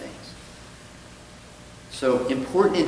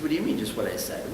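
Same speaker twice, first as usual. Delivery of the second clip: puzzled priest; 2 semitones lower, 6 dB quieter, faster than usual. Acted.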